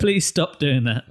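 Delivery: slow, exasperated playful begging; half-laughing despair at someone absent; mock pleading. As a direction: drag out a comic plea. Mock plea to an absent actor.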